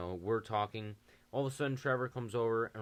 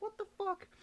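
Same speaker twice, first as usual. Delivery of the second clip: mock shocked. Bystanders shocked.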